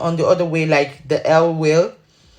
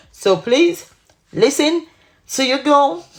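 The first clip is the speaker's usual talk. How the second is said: high-pitched, drawn-up playful begging; playful plea; 9 semitones higher, slower than usual. Real, not acted. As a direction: plead with them in a high, teasing voice. Playful plea to viewers, then laughs.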